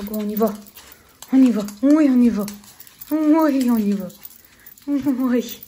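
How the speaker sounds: loud cheerful urging; talking to a dog. Real, not acted.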